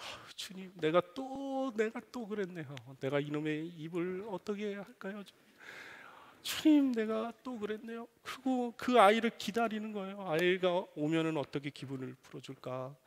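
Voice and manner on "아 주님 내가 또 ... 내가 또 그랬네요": soft, remorseful murmur to God; repentant prayer. Retold or imitated. Father confessing his temper to God, softly remorseful. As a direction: confess quietly, ashamed of the morning's anger. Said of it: "회개 기도합니다".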